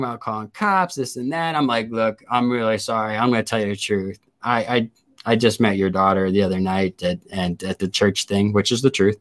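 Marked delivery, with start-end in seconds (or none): 1.9-8.5 contrite apology. Retold or imitated. Retold apology to girlfriend's mother.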